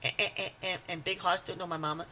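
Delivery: put-on light stammering Water Boy. Teasing Big Hoss in a light stammering Water Boy voice. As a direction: stutter about mama and Big Hoss. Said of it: "talk like this".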